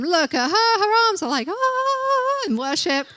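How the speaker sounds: playfully jealous comparison; mock envious whisper-gossip.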